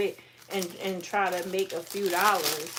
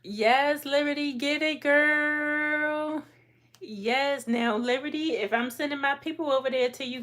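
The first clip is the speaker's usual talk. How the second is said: hype shouting; 5 semitones higher than usual. Real, not acted. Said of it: "getting all hoarse from shouting and carrying on".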